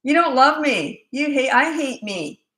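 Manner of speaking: put-on high, slow, drawn-out child's whine; milk it like a manipulative four-year-old; loud, hammed-up wounded wail; mock wailing child. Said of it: "they'll try anything to get you".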